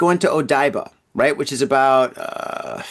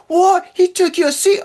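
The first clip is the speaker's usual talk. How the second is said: very high-pitched, exaggerated disbelief; outraged boyfriend impression; 4 dB louder than usual. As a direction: squawk it back as an incredulous question.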